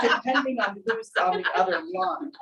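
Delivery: laughing through a colleague's words; laughing quote. Retold or imitated. Retelling what a colleague overheard, laughing. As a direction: chuckle while retelling the remark.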